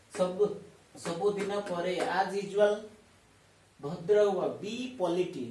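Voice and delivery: loud drill. Shown as a demonstration. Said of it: "repeat with me".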